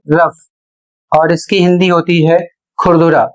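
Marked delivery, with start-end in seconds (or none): 0.1-0.4 रफ said as "ruff", with an f sound; correct pronunciation. Shown as a demonstration. Teacher giving the class the correct रफ, said ruff. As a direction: say रफ with a short u and a final f. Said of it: "सही उच्चारित किया जाता है".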